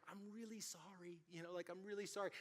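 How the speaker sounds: near-silent mouthed words; barely voicing an apology to the angry driver. Pastor mouthing sorry to a raging driver, almost silent. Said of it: "like, mouthing".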